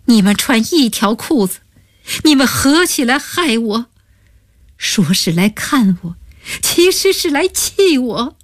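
a wronged woman in tears, pitch rising; tearful accusation. Acted. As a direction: voice climbing high as the crying takes over. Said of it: "渐渐变成了哭声".

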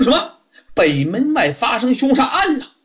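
jolted by the news and echoing it back; surprised. Acted. Di Renjie echoing the waiter's murder news, startled. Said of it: "当时就是一愣啊".

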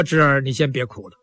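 put-on an old priest calming his nephew, half teasing; old uncle priest. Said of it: "老道说".

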